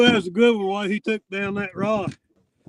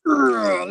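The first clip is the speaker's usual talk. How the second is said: effort grunt. Real, not acted. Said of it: "lift with your legs".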